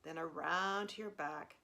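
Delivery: calm meditation guide, long pauses between cues; guided meditation. Real, not acted. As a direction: gently lead them through a body scan, leaving room to breathe. Leads a body scan.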